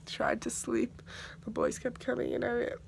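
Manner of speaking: soft whisper. Real, not acted. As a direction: keep it hushed. Whispering late at night.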